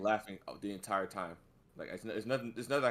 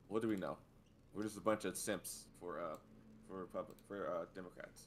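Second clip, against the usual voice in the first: low, soft deadpan aside; muted mock self-deprecation; sarcastic resignation; 5 semitones lower, 10 dB quieter than usual. Real, not acted. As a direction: drop to a quiet sarcastic mumble. Mock self-deprecation after rant.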